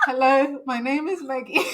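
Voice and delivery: stiff loud greeting. Retold or imitated. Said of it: "and I'm like".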